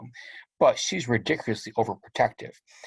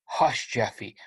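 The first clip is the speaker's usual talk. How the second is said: soothing hush. Retold or imitated. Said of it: "saying things to him over and over".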